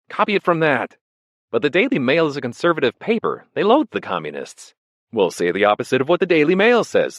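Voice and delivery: a scheming friend, pushing hard; Boris voice. Acted.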